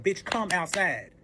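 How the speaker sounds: slow mock call through the door; drawn-out retold demand. Beating on windows and doors, slow demand to come out. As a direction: retell the demand, stretching the words out. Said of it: "I'm beating on windows".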